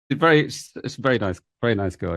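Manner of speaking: lightly put-on posh English accent; a hint of a plummy Cambridge voice, said fondly. Teacher playfully imitating her posh Cambridge friend, light posh English accent. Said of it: "got a very posh accent, very posh".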